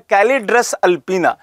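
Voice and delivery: the Latin name said a little slowly; careful naming. Shown as a demonstration. Teacher giving students the bird's scientific name, carefully. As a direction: introduce Calidrus alpina clearly. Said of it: "क्या नाम है?".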